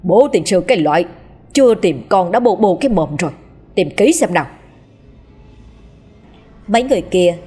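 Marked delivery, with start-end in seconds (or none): 0.0-4.4 mildly acted angry scolding; snapping angrily. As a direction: bark at her to stop wailing. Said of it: "rồi gắt lên".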